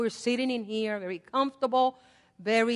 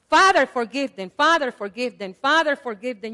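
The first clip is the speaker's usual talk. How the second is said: louder, pleading prayer repeated; fervent repeated prayer; 3 semitones higher, 10 dB louder than usual. Acted. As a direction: cry it out as a prayer three times. Preacher repeats Jesus' prayer.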